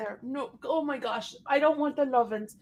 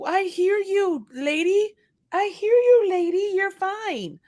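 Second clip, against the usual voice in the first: higher, sing-song, drawn out to the dog; sing-song pet talk; 7 semitones higher, slower than usual. Real, not acted. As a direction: coo at the dog, rising on lady. Talking to her pet.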